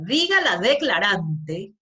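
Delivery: firm, slow, deliberate command to the witness; tono firme. Retold or imitated. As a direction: say it with calm authority, slowly. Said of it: "Con un tono firme". (tono firme y pausado de quien interroga)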